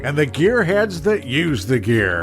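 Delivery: upbeat host sign-off; show outro. Acted. Host closing the morning show episode, upbeat announcer. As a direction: wrap up the episode like a radio host.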